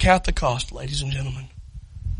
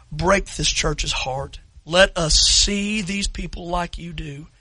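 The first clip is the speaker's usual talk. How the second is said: closing prayer; 4 dB louder than usual. Real, not acted. Pastor praying over the standing congregation, earnest and subdued. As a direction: pray it over the room, humbly.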